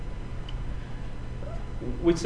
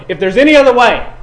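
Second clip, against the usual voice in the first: 1 anguished prayer; 6 semitones higher, 9 dB louder than usual. Acted. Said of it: "Jesus prayed".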